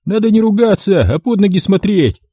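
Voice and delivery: high thin male voice; high squeaky man; thin reedy voice. A narrator's reading. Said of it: "голосок кастрата".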